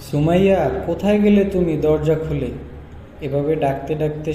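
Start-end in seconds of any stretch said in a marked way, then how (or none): 0.1-2.5 calling out angrily for his wife; loud, annoyed calling through the house; angry shout. Acted. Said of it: "খুব রাগান্বিত হয়ে যায়". (রেগে জোরে ডাকা)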